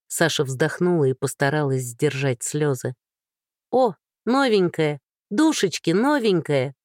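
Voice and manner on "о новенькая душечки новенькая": excited. Acted. Girls burst in, spot newcomer.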